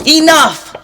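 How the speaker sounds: loud, high exasperated shout; angry shout. Acted. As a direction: yell it, fed up. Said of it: "could take no more".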